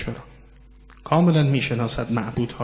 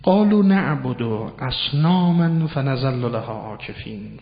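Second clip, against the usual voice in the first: Quran recitation; 4 dB louder, slower than usual. Acted.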